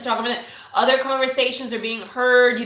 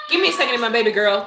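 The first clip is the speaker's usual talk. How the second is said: calling out; 5 dB louder, faster than usual. Real, not acted. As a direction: call across the house to your daughter. Calling to screaming daughter.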